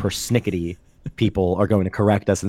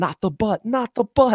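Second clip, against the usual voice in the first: frantic, desperate pleading cry, pitched very high; 13 semitones higher than usual. Retelling a season two scene where a character begs a corpse: imitating a desperate yell. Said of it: "He's yelling".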